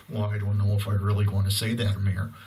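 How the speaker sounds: mock the timid guy who won't say it on camera. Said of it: "and they're like".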